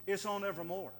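evermore leaned on as the key word; stress on evermore. Shown as a demonstration. Preacher pointing his congregation to evermore, stressed. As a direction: point the weight onto evermore. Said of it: "The emphasis here is not on rejoice".

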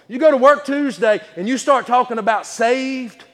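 high, emphatic pulpit voice; slow down and punch it to the congregation; preaching. Real, not acted.

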